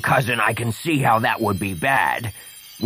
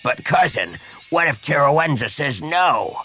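plaintive; 6 semitones higher than usual. Acted. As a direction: protest helplessly to your bossy cousin. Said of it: "Kivik asked plaintively".

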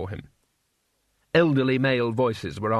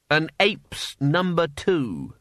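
dry quip; 4 semitones higher, much slower than usual. Acted. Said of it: "I say, did anyone notice that?".

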